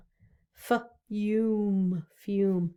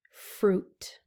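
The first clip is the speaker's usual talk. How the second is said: whispered word. Shown as a demonstration. Teacher to kids, whispering the word. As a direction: whisper Fruit. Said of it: "What about fruit?".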